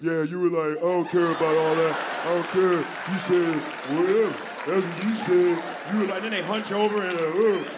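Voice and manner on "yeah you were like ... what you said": mocking, dumb, brutish caveman voice. Acting out women mocking men: imitating women's caveman voice. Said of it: "It's the same caveman voice".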